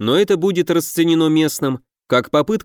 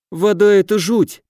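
mournful; 7 semitones higher, 3 dB louder than usual. A narrator's reading. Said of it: "тоскливо признался".

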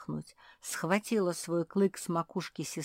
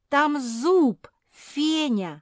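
much higher, louder screaming alarm; yelling with all her might; 9 semitones higher, 9 dB louder, slower than usual. A narrator's reading. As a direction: shriek the discovery into the ear. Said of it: "завопила, что есть сил".

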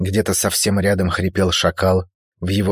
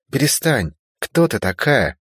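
higher, sharp stop it; sharp protest; 6 semitones higher than usual. A narrator's reading. Girl jerking away from stranger's touch, sharp protest.

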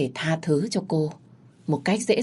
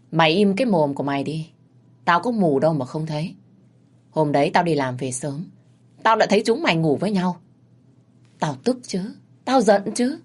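bitter reproach. Acted. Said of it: "đay nghiến".

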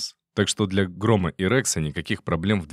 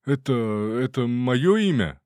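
frightened detainee; 5 semitones higher than usual. Acted. Detainee asks soldiers if they want his name, high and scared. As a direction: ask it like a terrified drunk.

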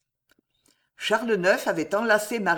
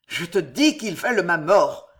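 a touch louder, grinding the words out; grating; 4 dB louder than usual. Acted. The paranoid king insisting to Marie, grating and tense. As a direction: grind it through your teeth. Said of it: "grinça-t-il tout à coup".

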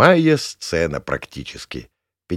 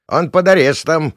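raised, higher voice; defending his catch; 8 semitones higher, 8 dB louder than usual. Acted. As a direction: cut in loudly to protect him. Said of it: "вступился участковый". (громко, вступаясь)

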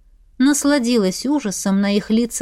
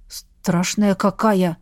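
squeezed out; 3 semitones lower, slower than usual. Acted. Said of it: "выдавил его приятель".

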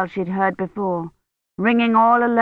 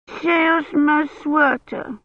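put-on high, slow whiny child; a small girl tattling, much higher; little girl complaining; 9 semitones higher, much slower than usual. A narrator's reading. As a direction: Agnes tattles on her older sister. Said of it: "Agnes said".

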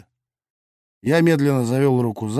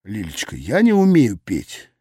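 condescending; 3 semitones lower than usual. Acted. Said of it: "снисходительно сообщил я".

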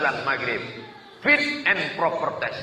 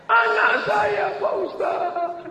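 high tearful mother; slower than usual. Retold or imitated. Crying mother speaks to preacher.

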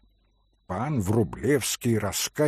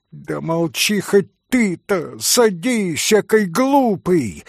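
high, louder vexed snap; angry snap; 6 semitones higher, 4 dB louder than usual. Acted. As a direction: snap at him in spite. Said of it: "Со злобною досадой огрызнулась".

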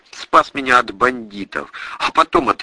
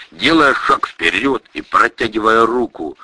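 plain reading voice

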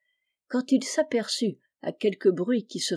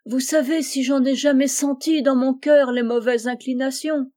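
mock sobbing; 5 semitones higher, 4 dB louder than usual. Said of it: "dit-il en sanglotant".

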